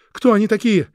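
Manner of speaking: high, loud desperate cry; shouting. Acted. Louise shouting back at Krieg, high and loud. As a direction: yell it back in defiance. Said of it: "закричала Луиза".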